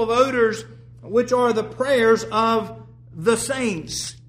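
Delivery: measured, formal Bible reading; scripture reading. Acted. Preacher reading the Revelation passage to the congregation, solemn reading. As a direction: read the verses with weight and reverence.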